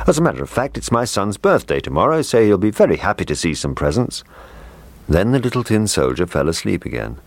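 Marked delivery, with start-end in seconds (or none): 0.1-4.2 the cook. Acted. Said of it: "replied the cook".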